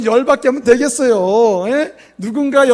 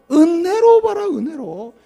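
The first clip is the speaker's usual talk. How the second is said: 은혜로 봐라 lifted high then dropped to 은혜로; exhorting; 7 semitones higher, slower than usual. Real, not acted. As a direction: urge them with a sudden high call. Preacher exhorts the congregation.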